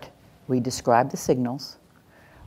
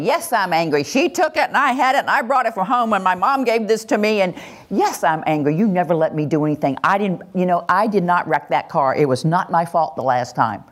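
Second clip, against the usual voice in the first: put-on high-pitched angry kid voice, venting at the adult; whiny upset kid rattling off complaints; angry child; 4 semitones higher than usual. Teenager snapping back at the adult, high and upset.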